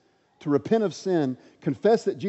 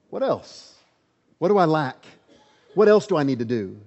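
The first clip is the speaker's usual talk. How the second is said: eager questioning; 6 dB louder than usual. Retold or imitated. Voicing the young man's question.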